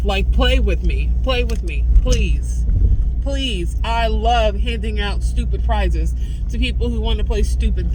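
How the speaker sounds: loud, fed-up rant, barely holding it together; real anger. Real, not acted. Vlogger venting to camera, loud and furious. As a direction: let the fury spill out at people who won't listen. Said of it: "Anger is better than mania".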